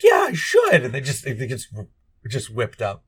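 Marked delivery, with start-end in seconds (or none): 0.0-0.8 high, loud dopey agreement; hammed-up shout. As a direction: yell it like a drunk hero. Drunk hero agreeing loudly.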